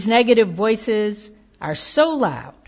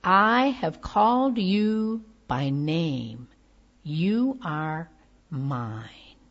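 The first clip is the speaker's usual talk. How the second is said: gentle reading; 2 semitones lower, slower than usual. Acted. Preacher reading a baptism banner to the church, slow and gentle. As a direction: read it like a promise to a child. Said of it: "the banner says".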